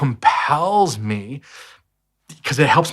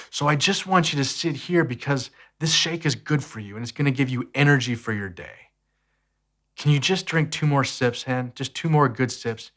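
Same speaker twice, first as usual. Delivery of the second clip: tender heart-to-heart; 4 dB quieter than usual. Retold or imitated. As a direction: reassure a four-year-old in your lap. Dad gently coaxing son to drink.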